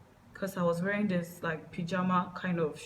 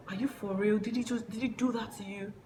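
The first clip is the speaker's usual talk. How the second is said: higher-pitched retold disbelief; incredulous quote; 4 semitones higher than usual. Dad reacting to what happened, retold incredulous questioning. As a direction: question it as if unable to believe it.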